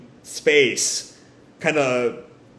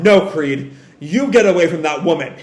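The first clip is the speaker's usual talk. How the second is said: louder, acted gunpoint command; forceful order; 5 dB louder than usual. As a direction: order him away from her. Gunman orders Creed away.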